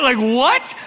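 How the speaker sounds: high, loud incredulous "what"; hammed-up astonishment; shocked disbelief. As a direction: burst out in mock shock. Retold shock at the confession.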